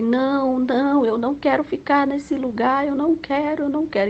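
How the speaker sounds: high, tearful pleading no; retold crying refusal; crying plea. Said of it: "E eu chorava muito".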